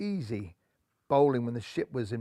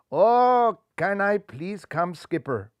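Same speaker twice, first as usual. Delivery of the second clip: put-on eager boy; 4 semitones higher, slower than usual. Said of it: "inquired young Rajbun".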